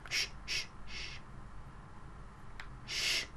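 soft unvoiced shushing. Real, not acted. Gamer hiding from the seeker, soft shushing. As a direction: hush everyone while hiding.

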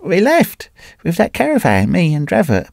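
put-on high, strained, half-mad old wanderer; a wrecked man clutching at his story; ragged Carnehan. A narrator's reading. Broken wanderer telling his old friend the tale, high and strained.

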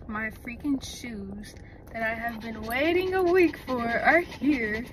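excited whisper. Real, not acted. Excited whisper about shoes.

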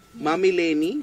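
ordinary talk, nothing marked

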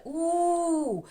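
У held long and high, freely voiced; drawn-out vowel. Shown as a demonstration. Teacher showing an open vowel to children, held long. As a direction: sing out У long and free. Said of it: "вільно протягуємо голос".

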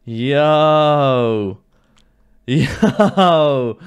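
excited yo. Real, not acted. Celebrating great loot.

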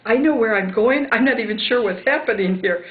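retold protest.

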